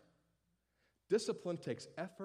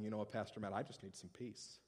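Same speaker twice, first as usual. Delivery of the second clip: weary congregant; 5 semitones lower, 9 dB quieter than usual. Acted. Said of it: "others of you going".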